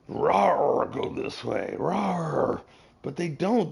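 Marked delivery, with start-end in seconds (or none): 0.1-2.6 playful growled rawr around a command; mock lion roar. To a friend, picturing leaders as lions, mock roaring. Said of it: "they should be lions".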